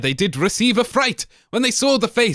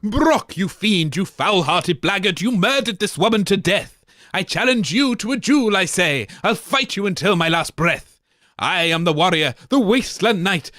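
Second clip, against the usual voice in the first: heroic knight. Acted. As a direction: challenge him boldly. Knight challenges pirate.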